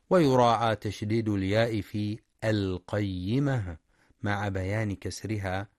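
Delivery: ordinary talk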